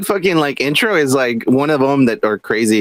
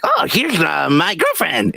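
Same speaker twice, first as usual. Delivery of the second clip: imitating cartoon cat; 3 semitones higher, slower than usual. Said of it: "he's like".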